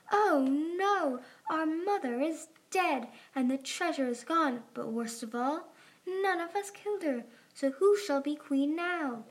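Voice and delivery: high, wailing mock grief; theatrical anguish. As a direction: lament like an overacting princess. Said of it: "let out a cry of anguish".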